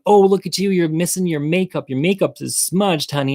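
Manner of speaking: a catty queen taunting about smudged makeup; catty mockery. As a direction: sneer it out high and sweet. Hecklers mock her smudged makeup.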